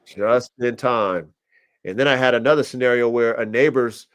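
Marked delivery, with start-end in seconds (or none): 0.0-1.3 each word dragged out slowly; slow emphasis. Real, not acted. Repeating to a friend that he caught her in time, slowed right down. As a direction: let it land, slow and weighty. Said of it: "So I got her just in time".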